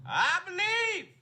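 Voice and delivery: high, slow, stretched-out declaration; rising hopeful cry. Real, not acted. Fan pumping up faith in his team, high slow hopeful cry. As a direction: lift it up like a rallying cry. Fan rallying self-belief.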